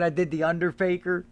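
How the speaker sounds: chuckling through the line; amused retelling through laughter; laughing while telling. Retold or imitated. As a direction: laugh as you say it. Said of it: "I said".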